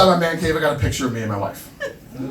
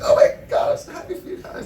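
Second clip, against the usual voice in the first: polite wife. Retold or imitated. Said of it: "My wife's like".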